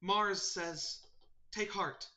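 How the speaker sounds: high, earnest bird voice; solemn sparrow messenger. Acted. Sparrow urging the last druid to take heart, solemn. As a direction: pass on a grave charge in a high voice.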